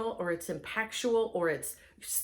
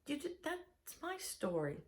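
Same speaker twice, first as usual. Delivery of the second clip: deflated; 4 semitones higher, 14 dB quieter than usual. Retold or imitated. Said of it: "And you go".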